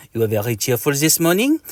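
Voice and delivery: put-on meepy French-accented insect; lightly voiced mosquito with French accent; Mister Mosquito. Mosquito remarks on his neighbour's mood, meepy voice. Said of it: "in a meepy voice".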